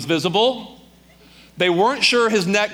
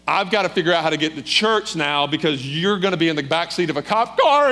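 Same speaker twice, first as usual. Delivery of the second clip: falling apart. Retold or imitated. Wife facing husband's arrest, falling apart. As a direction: imitate a wife coming unravelled as she goes. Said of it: "she just falls apart".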